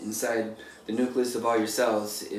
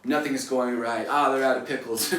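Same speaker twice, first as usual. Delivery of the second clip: defensive grumbling. Retold or imitated. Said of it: "defensive kind of grumbling".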